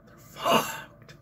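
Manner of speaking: slow Canadian impression, swear stretched into a whisper; breath-heavy, drawn-out mock Canadian accent; thick Canadian accent. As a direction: repeat it as a hammed-up Canadian accent. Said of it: "thick Canadian accent".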